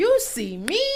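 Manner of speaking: energetic announcer delivery. Showing how to shout out someone from Duval: hype announcer voice. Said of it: "we gotta be like an announcer".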